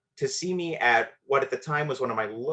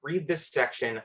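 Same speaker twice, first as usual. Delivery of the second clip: higher, breezy teacher voice, lightly done; cool casual teacher; 5 semitones higher than usual. Retold or imitated. Teacher covering for a crying student, lightly voiced casual. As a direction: keep it casual so nobody notices. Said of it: "she plays it very cool and casual".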